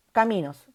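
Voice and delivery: Caminos with the weight on mi; stress on middle syllable. Shown as a demonstration. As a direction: say Caminos, leaning on mi. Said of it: "Sílaba tónica de caminos, mi".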